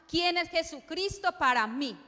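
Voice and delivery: loud, proclaimed ¿Quién es Jesucristo para mí?, with quién struck hard; ringing question. Real, not acted. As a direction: call the question out to the whole church. Preacher repeats question, then softer.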